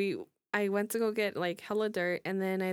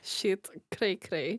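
slow Eastern European accent; slow, foreign, heavy Eastern European accent; much slower than usual. Shown as a demonstration. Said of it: "Why'd you say it in an Eastern European accent".

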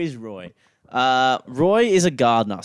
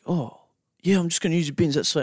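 lightly imitated Aussie bloke, higher pitch; hell Aussie; 5 semitones higher than usual. Gardener telling homeowner he'll use the bins, lightly imitated Aussie. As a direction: do a slightly higher-voiced Aussie dude. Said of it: "he was just hell Aussie".

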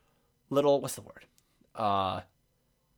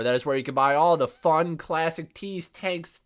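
out of breath. Real, not acted. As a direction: rattle off the list short of breath. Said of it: "I'm running out of breath".

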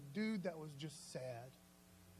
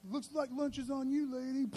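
mock sass; 5 semitones higher than usual.

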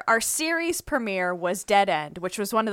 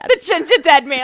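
loud, high New Jersey housewife voice; brassy Jersey housewife announcing it; 6 semitones higher, 9 dB louder than usual. Retold or imitated. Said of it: "I sound like a housewife from New Jersey".

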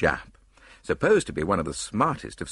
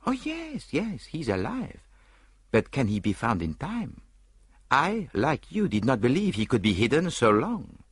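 high, lilting Belgian-French detective; prim little Belgian sleuth musing aloud; Poirot voice; 8 semitones higher than usual. Acted. Poirot doubting to Hastings, in a high Belgian lilt.

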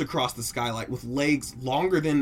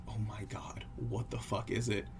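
hushed, much softer voice; whispering wife; 8 dB quieter than usual. Acted. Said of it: "she whispers into the phone".

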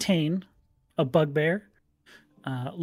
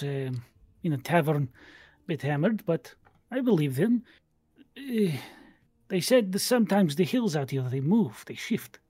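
lightly voiced tabaxi sailor; tabaxi telling a tale. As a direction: insist on a strange rumour, in character.

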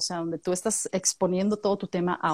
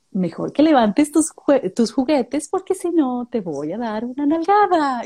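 higher, slow and sweetly sung; sweet scolding to a child; 3 semitones higher than usual. Retold or imitated. Parent telling a child to pick up toys, sweet singsong. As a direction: threaten a toddler in the nicest voice. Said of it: "se lo dices así como bien bonito".

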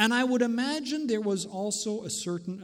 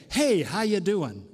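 breezy, casual hello; casual greeting; 3 dB louder than usual. Acted. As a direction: toss it off like an everyday greeting. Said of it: "it sounds like a greeting".

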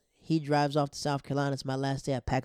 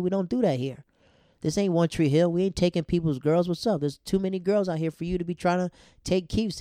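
loud, raised, indignant call-out; heated confrontation; 4 semitones higher, 7 dB louder than usual. Retold or imitated. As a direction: call him out hard, voice up and loud. Confronting roommate Pat.

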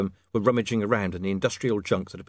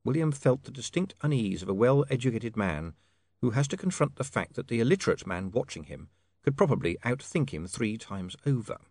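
ordinary delivery, nothing marked

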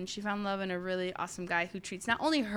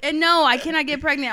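laughing denial; 5 semitones higher, 9 dB louder than usual. Real, not acted. Denying pregnancy while laughing.

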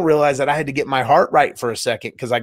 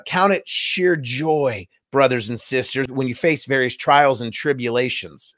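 slow scripture quote. Retold or imitated. Quoting James scripture slowly.

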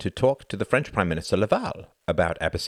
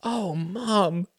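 higher, louder crying out; emotional cry; 13 semitones higher, 5 dB louder than usual. Acted. Son crying out to his mother. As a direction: cry out to her. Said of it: "he cried".

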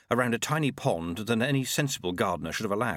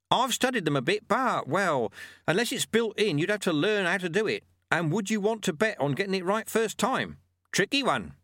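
put-on higher, patient old mentor voice; wise old monk; 9 semitones higher than usual. A narrator's reading. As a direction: teach the lesson like a wry old sweeper. Lutze voice.

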